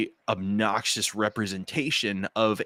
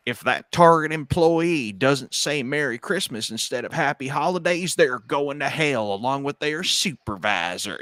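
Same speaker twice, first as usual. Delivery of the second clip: mock radical Christian; 5 semitones higher, 3 dB louder than usual. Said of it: "have to be like".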